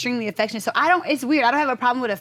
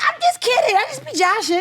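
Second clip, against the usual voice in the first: playful just kidding; 11 semitones higher, 3 dB louder than usual. Retold or imitated. Teasing friends then backing off.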